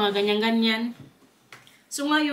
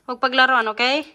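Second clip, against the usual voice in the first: firm scolding; 8 dB louder than usual. Real, not acted. Scolding child at meal.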